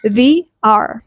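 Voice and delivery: "the" as "thee" before "R"; vowel form. Shown as a demonstration. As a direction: say "the R" as "thee our". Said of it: "which is a vowel sound".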